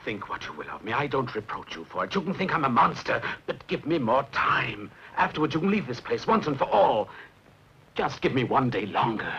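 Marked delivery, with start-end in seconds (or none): 2.1-9.3 raised, urgent begging; desperate pleading. Acted. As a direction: beg her for one more day. Husband begging for time.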